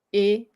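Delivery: Étoupe with the last E barely sounded; French Étoupe, no weight on the final E; unstressed final E. Shown as a demonstration. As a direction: say Étoupe as "ay-toop", ending lightly. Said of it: "don't put the emphasis on the E".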